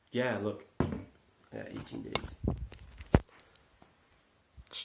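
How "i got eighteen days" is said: mock doom voice. Dramatic deadline statement.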